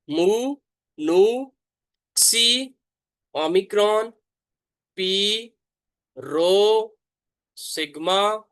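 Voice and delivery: letters called out high and loud; loud recitation. Shown as a demonstration. Teacher leading students in reciting the alphabet loudly. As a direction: chant each letter out loud for the class. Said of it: "आपको दरमियान से repeat करवाता हूँ".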